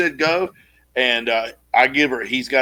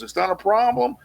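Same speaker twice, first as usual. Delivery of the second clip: laid on thick; 2 semitones higher than usual. Retold or imitated. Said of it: "laid it on thick as honey".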